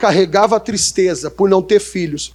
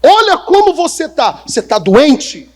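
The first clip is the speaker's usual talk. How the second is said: worried king; 7 semitones higher than usual. Retold or imitated. The king checks on his sad servant, high and concerned. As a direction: press him as a king would. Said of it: "É como se o rei, pessoal, chamar".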